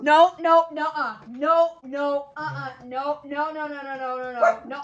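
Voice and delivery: loud, high, rapid-fire no's; urgent scolding. Real, not acted. Owner breaks off to stop the dog, loud urgent scolding. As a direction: shout it to stop a misbehaving pet.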